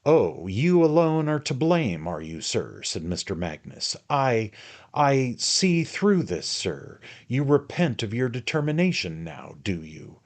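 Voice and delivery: furious suspicion; jealous accusation. Acted. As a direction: hurl it at his rival. Magnus jealous angry accusation.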